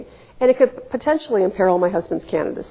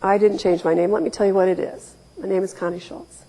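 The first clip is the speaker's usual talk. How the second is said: calm. Retold or imitated. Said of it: "So I very calmly said".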